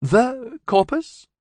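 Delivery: high, slow, hushed alien awe; high alien voice, slowly awed. Acted. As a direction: breathe the name out slowly in wonder. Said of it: "Hailey's tone was slightly awed".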